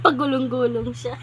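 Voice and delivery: words through laughter; laughing. Real, not acted. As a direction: laugh while saying it. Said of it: "Natatawa, natatawa ako".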